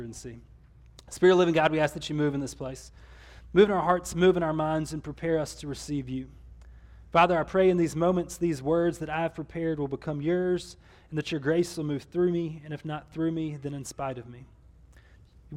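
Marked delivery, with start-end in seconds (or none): 1.1-6.3 prayer. Real, not acted. Opening prayer before sermon. 7.1-14.4 prayer. Real, not acted. Pastor prays aloud.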